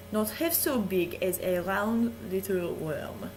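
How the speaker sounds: put-on theatrical reading in a French accent; French host reading Shakespeare aloud, hammed-up=; story reading. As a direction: savour the verse like a bedtime story. Continues the speech.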